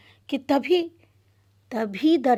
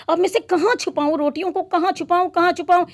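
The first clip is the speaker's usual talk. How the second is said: flustered panic; 5 semitones higher, faster than usual. Acted. Panicking where to hide food.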